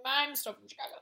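imitated Chicago accent; lightly put-on Chicago voice; Michael Shannon. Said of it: "Michael Shannon's like".

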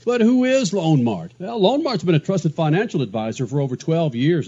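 upbeat radio ad read. Acted. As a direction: sell it like a sponsor spot.

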